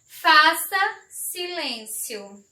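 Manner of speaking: slow, measured command; giving an order. Shown as a demonstration. Teacher showing pupils an imperative to be silent, commanding. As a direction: order it firmly, word by word. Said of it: "Eu estou dando uma ordem".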